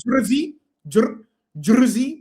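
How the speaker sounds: "Jersey" said in mimicry of a friend's accent; imitated pronunciation. Correcting a co-host on his own accent, mimicked "Jersey". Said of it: "that's how you say it".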